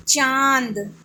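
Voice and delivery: चांद drawn out with the vowel sent through nose and throat; slow, nasalised चांद. Shown as a demonstration. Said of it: "इसका उच्चारण नाक और गले से किया जाता है".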